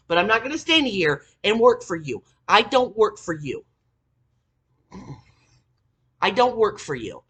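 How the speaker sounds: heated, loud telling-off of a coworker; angry loud scolding; retold angry rant.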